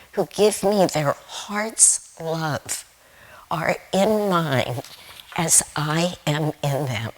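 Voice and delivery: slow, deliberate recitation of the verse; the verse read out slowly and reverently. Shown as a demonstration. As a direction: let each word land, unhurried and devout. Reading scripture line, then repeated.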